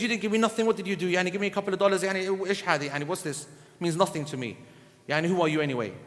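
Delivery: low, quiet ungrateful sneer; a hint of the ungrateful man, dismissive; scornful ungrateful recipient, voiced lightly.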